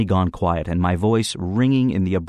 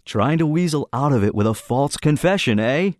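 glowering; 7 semitones higher than usual. A narrator's reading. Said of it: "Brinker glowered at me".

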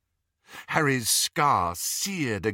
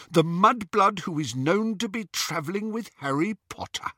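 higher, sneering henchman; snatcher voice; 9 semitones higher than usual. A narrator's reading. Scabier to Greyback, a sneering higher voice. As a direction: announce her name like a prize. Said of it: "Scabier was saying".

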